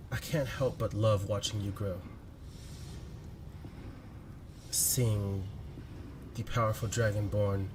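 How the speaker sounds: lightly voiced loving letter-writer; Damien's voice. Damien confessing love to a sleeping partner in a letter, heartfelt. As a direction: read it as a tender, halting love letter with long pauses. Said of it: "you hear Damien's voice".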